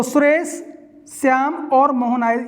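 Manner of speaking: short comma break after a rising "Suresh"; comma pause after Suresh. Shown as a demonstration. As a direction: lift "Suresh", brief break, then "Shyam और मोहन आए" together. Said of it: "Suresh के बाद में".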